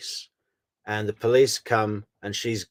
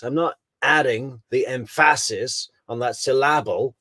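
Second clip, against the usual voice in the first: "adding", "emphasis" and "syllable" each given a measured beat; George's poetic emphasis; 2 semitones higher than usual. Retold or imitated. Host mimicking the lawyer's poetry techniques, emphatic recital of "adding the emphasis". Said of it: "George is using a little bit of poetry techniques".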